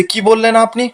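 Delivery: mildly voiced outraged comeback; retold angry retort. Ela snapping back at Gora's insult, mock indignant. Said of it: "এরা তখন রেগে গিয়ে বলছে".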